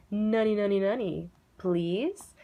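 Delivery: chanted "nani" with a questioning rise on "please"; lilting question to coax the class; teacher prompting kids to ask, chanting nani; playful teacher prompt. Shown as a demonstration. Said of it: "and then I would say".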